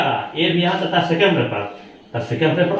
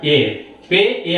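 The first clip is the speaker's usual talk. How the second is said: ए drawn out slowly, पे ए spelled slow; slow sounding out; much slower than usual. Shown as a demonstration. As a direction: stretch each sound like a teacher. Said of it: "तो ए के लिए क्या करना है".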